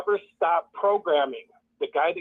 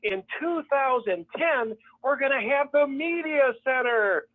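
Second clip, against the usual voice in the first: imitating leaders touting assembly plans, pitch raised; hammed-up promo voice, higher; mock excited announcement; 4 semitones higher than usual. Mocking leaders hyping future building plans, higher excited voice. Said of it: "And they're".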